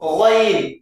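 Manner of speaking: "गैन" drawn from the throat, thick and heavy; Arabic letter demo. Shown as a demonstration. Teacher to students: thick throaty "गैन" demo. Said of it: "और मोटा करके निकलेगा".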